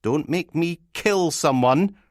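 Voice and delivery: slow, high, threatening grumble; grumpy threat. Acted. Woken partner in bed complains about the call, slow grumpy threat. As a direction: drag out the warning, pitched high.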